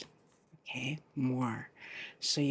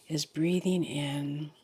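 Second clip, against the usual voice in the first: guided meditation. Real, not acted. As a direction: lead them gently into the breath, phrase by phrase.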